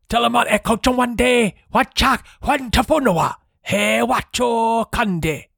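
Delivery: high, slow made-up tongue; booming chant of a strange creature; crayfish guardian voice. Acted. Crayfish guardian answers in Olmon.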